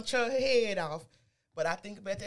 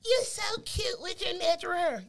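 mocking compliment; 7 semitones higher than usual. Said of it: "Y'all got me".

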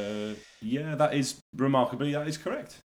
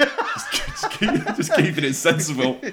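laughing; 3 semitones higher, 4 dB louder than usual. Real, not acted. Laughing at own sensibleness.

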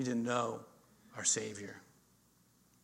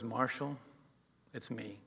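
quiet confession; 4 semitones lower, 9 dB quieter, slower than usual. Retold or imitated. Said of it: "He goes".

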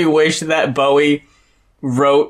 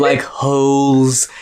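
British pronunciation; 3 semitones lower, much slower than usual. Retold or imitated. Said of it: "Stewie Griffin impression".

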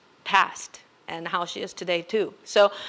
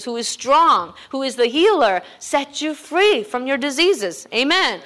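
louder, slowing into a booming sermon peak; preaching climax; 4 semitones higher, 4 dB louder than usual. Real, not acted. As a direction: build it up like a preacher rousing the church.

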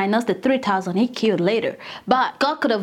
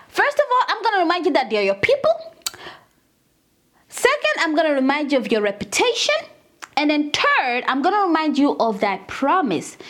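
imitating Moses; 3 semitones higher, faster than usual. Voicing Moses arguing with God.

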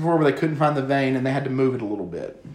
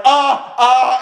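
mock pained cry; 7 semitones higher, 5 dB louder than usual. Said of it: "and I was like".

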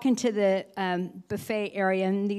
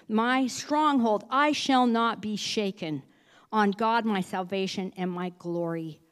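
slow, reverent psalm reading; scripture reading; slower than usual. Acted. Pastor's wife reading Psalm sixty-two to church, reverent. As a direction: read it like a prayer.

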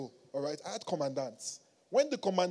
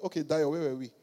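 lower, softer casual return; smiling, relaxed; 6 semitones lower, 6 dB quieter, faster than usual. Retold or imitated. Commandant turning back to his young visitor, smiling and casual. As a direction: drop back to an easy, friendly tone. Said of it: "he turned back to me and smiled".

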